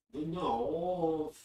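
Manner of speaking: lightly put-on North of England accent; Northern English accent. Shown as a demonstration. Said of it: "what do they sound like?".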